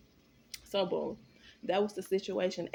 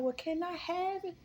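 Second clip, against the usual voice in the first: small timid voice; 12 semitones higher than usual. Retold or imitated. Pregnant girl asking for sandwich.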